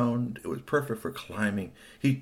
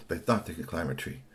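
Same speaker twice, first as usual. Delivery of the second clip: lower, softer narration; hushed repeat; 6 semitones lower, 6 dB quieter than usual. A narrator's reading. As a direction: drop the voice as if pondering a plan. Repeats the line much softer.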